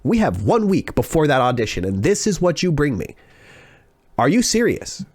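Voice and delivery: mildly indignant retold scolding; genuinely mad. Teacher scolding student before an audition, mildly angry. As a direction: act out an angry teacher, stressing key words. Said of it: "She was genuinely mad".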